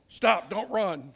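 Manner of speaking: a slow, stretched mock shout of a cop; drawn out like a cop calling after a runner; mock police yell. Cop yelling at a fleeing suspect, slow mock shout. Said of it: "we yell at lots of people".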